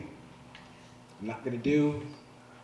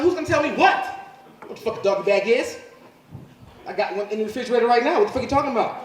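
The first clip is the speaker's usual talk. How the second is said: higher, rushed baffled dad; indignant confusion; 5 semitones higher, faster than usual. Retold or imitated. Dad confused by sons, higher flustered questioning. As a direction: demand answers, flustered. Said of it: "I'm like".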